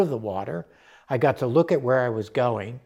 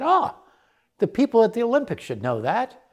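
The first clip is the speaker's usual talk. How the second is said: high-pitched, spirited exclamation; spirited, spiky; 9 semitones higher than usual. Retold or imitated. Spirited Irish friend urging on the swim discovery, spiky and high. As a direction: imitate a spiky, spirited woman declaring it. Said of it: "very spiky and really had a lot of spirit".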